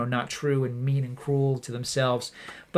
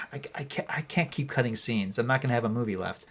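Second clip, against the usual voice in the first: much softer, defeated muttering; defeated director; 3 semitones lower, 8 dB quieter than usual. Retold or imitated. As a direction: sigh it out, beaten down. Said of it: "he's in the editing room like".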